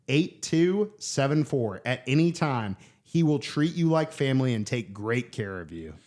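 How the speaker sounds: a lightly read podcast sponsor ad. Acted. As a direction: read the sponsor spot upbeat.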